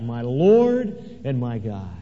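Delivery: slow, drawn-out cry of worship. Acted. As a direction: cry it out, slowly and with awe. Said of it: "fell down and cried out".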